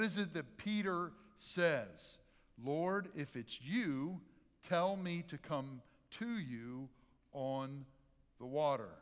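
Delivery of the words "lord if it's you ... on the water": slow, spaced-out quotation; deliberate, with pauses between phrases; measured scripture quote. Acted.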